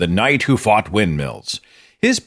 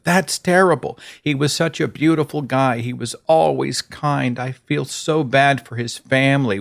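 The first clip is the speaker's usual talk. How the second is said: sympathetic response; 4 semitones higher than usual. Pretend.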